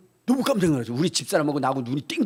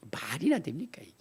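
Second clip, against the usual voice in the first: hushed unvoiced aside to the congregation; whisper; 9 dB quieter than usual. Real, not acted. Pastor whispering to the congregation about sleeping in church. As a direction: drop to a whisper mid-sermon.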